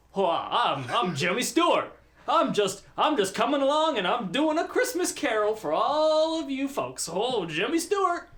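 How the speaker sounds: a hint of old Jimmy Stewart; Jimmy Stewart impression. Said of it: "I like when you do impressions".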